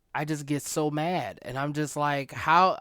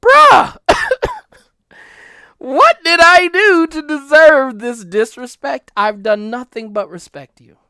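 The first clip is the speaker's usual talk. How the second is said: exasperated outburst; 12 dB louder than usual. Retold or imitated. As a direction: blow up at them, then sink into hurt. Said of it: "and I'll be like".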